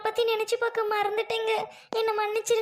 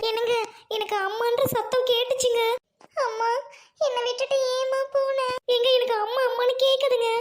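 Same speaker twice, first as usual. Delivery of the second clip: alarmed; 4 semitones higher than usual. Acted. Hears child crying, alarmed.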